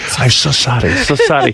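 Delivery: high, overly apologetic, pleading tone. Retelling a hotel worker's reply to a weather remark: imitating someone over-apologizing. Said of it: "Apologize for everything".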